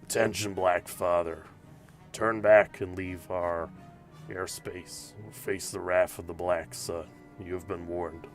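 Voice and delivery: lightly voiced gravelly pirate on the radio; low gravel vigilante growl. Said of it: "a gravelly voice comes through".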